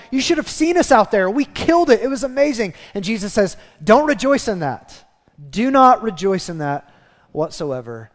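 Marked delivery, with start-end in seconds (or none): 0.1-2.7 high, loud, gushing boast; joyful excitement. Acted. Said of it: "come back with joy and excitement". 3.8-8.1 firm, emphatic correction; stern rebuke. Acted. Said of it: "he rebukes them for it".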